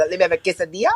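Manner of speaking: quesadilla snapped suddenly into Spanish pronunciation. Imitating people ordering Mexican food: snapping into Spanish pronunciation. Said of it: "people who snap into".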